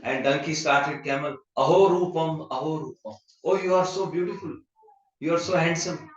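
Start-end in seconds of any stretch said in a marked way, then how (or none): 1.6-6.1 gushing, sugary flattery, lightly voiced; flattering praise. Donkey sweet-talking the camel, mock flattering. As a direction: lay the compliments on thick. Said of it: "He started praising camel".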